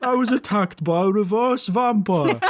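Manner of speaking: lightly voiced grand wizard; a hint of a theatrical sorcerer. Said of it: "why is this my sorcerer voice".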